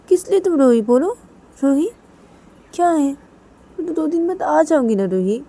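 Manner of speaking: loud, high-pitched pleading; distressed, insistent questioning; upset confronting. Acted. Piyu confronts crying Ruhi, pleading.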